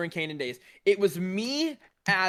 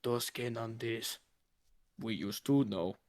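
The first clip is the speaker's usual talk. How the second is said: sad; 8 semitones lower, 8 dB quieter than usual. Retold or imitated. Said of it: "he's just, like, sad".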